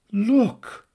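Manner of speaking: high plummy nasal voice; the stuffy gentleman protesting; Arthur voice. Acted.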